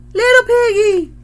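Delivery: high, loud parrot squawk repeated; the parrot echoing itself, high loud squawk. A narrator's reading. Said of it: "squawked the parrot".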